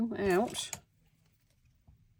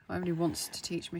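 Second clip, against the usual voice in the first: "teach" said as a quicker corrected redo; brisk correction, "teach me" set right; quick self-correction; faster than usual. Real, not acted. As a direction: rush through the fixed "teach me". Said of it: "should I say".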